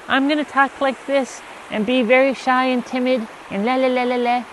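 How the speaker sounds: mock a shy, dainty man; shy timid man. Mocking feminine men, high soft timid voice. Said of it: "the feminine men who are like".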